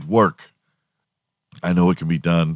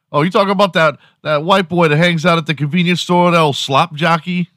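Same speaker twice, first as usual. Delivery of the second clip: much higher, lively imagined bystander voice; mock street guy; 9 semitones higher than usual. Imagined man recognizing the slur, higher animated voice. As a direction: play the guy who knows exactly who that is.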